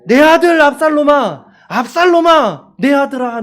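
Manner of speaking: high, loud wail of grief; anguished cry. Acted. Pastor voicing David crying out for his dead son, loud wail. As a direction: cry it out like a broken father. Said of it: "큰 소리로 ... 외치면서".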